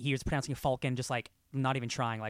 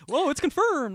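high-pitched exaggerated "whoa"; mock amazement; 13 semitones higher, 5 dB louder than usual. Reacting to film lore being confirmed, mock amazement. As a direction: leap up in pitch, hammed-up astonishment.

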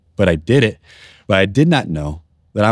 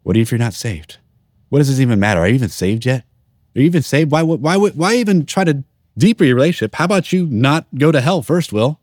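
taunting inner voice; 5 semitones higher than usual. Retold or imitated. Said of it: "there's this voice".

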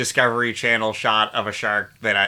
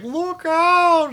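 high, drawn-out mock warning cry; stretched-out, hammed-up high call; Heather Graham; 4 dB louder than usual. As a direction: imitate a comically slowed movie warning. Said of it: "It's like Heather Graham says it".

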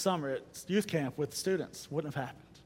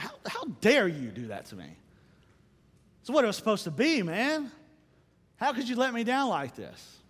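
mock anger at God; 5 semitones higher than usual. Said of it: "was I ever mad at God".

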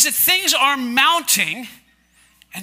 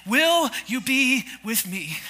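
gentle divine question; 4 dB quieter, slower than usual. Acted. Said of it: "then he asks you a question".

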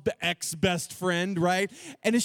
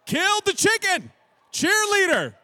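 much higher and louder, stunned exclamation; shocked disbelief; 11 semitones higher, 5 dB louder than usual. Real, not acted. Speaker telling students the cheerleader killed her chicken, in a high, loud, stunned voice. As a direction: hit the punchline in sheer disbelief. Punchline of chicken killing told.

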